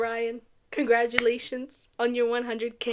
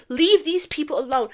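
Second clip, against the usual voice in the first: firm scolding; 4 semitones higher, 7 dB louder than usual. Real, not acted. Scolding harassers, louder.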